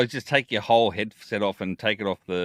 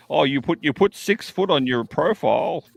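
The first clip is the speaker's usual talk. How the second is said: mock woman's voice; 5 semitones higher, 3 dB louder than usual. Mocking what a date says about a height claim. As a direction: tease like a disappointed date. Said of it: "mocking a dating match".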